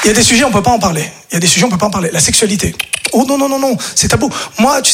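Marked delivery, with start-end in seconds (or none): 0.0-1.1 quick take. Shown as a demonstration. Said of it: "repeated line".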